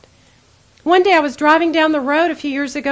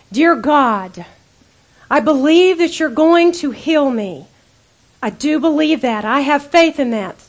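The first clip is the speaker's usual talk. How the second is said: confident prayer; 4 dB louder, slower than usual. Pretend. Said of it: "here you are praying over here going".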